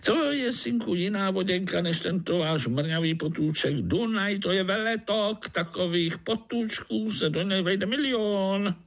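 grand tall-tale teller; boasting mosquito. Acted. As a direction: brag about the Danube.

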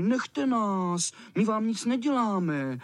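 mild frightened protest; children crying out. Acted. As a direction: plead up high to be left alone. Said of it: "Ti křičeli".

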